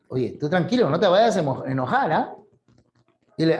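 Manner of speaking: ordinary talk, nothing marked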